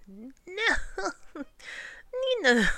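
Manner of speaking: high, hearty storybook laugh; big performed guffaw; lion's laughter. A narrator's reading. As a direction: laugh through the words as the lion. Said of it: "laughed the lion".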